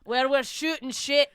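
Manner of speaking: slow mock Scottish; mock Scottish accent. Cohost joining the podcast intro, mock Scottish accent. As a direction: join in with a Scottish drawl.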